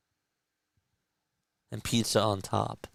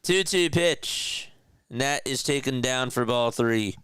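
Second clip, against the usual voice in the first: play-by-play call; 3 semitones higher than usual. Acted. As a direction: stretch the count like a broadcaster. Live play-by-play of his game.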